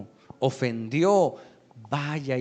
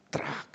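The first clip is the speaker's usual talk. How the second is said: softer spoken snapping noise; imitated bone crack; 7 dB quieter than usual. Preacher mimics the legs being broken, soft crack sound. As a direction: make the crack of a breaking bone.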